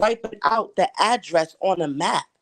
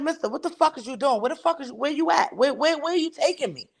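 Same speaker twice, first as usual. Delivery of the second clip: pitched-up frantic questioning; high frantic demand; 7 semitones higher than usual. Retold or imitated. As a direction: demand answers, scared and upset. Confronting driver in empty lot.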